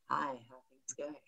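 very soft, low murmured greeting; hushed, sensual whisper; whisper in the ear. Shown as a demonstration. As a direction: whisper it intimately into their ear. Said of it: "you whisper in their ear".

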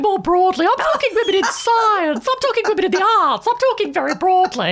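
a hint of a prim interfering old lady; Vera Mackenzie voice. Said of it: "I might speak with this voice".

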